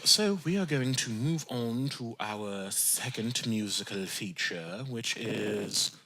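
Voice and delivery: measured, formal presenter register; code-switched voice. Real, not acted. Host moving on to the musical feature, semi-code-switched voice. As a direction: announce it deliberately in a polished hosting voice. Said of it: "in semi-code switch voice mode".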